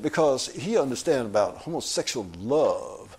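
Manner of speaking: lightly imitated drawling accent; Craig Claiborne impression. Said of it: "he spoke like this".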